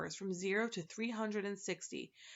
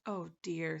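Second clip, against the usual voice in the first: sad and soft; 3 semitones lower than usual. Acted. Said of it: "said Milo sadly and softly".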